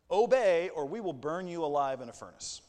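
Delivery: loud barked order; a hint of a furious king, loud on the first word; threatening command. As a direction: threaten them with the furnace. King's court threatening the three.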